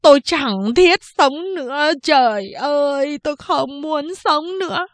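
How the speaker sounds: high, loud hammed-up wail; mock crying out. Boy hopping in the noose for laughs, high hammed-up wail. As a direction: cry out with each jump, overacting. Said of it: "mỗi lần nhảy một lần kêu lên".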